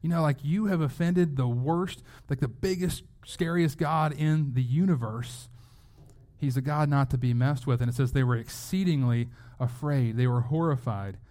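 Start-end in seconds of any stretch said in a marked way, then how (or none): 0.0-5.5 a touch of retold outrage, pitch pushed higher; half-hearted shocked scolding; lightly voiced outraged sailors; mild mock outrage. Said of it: "They're, like, morally outraged".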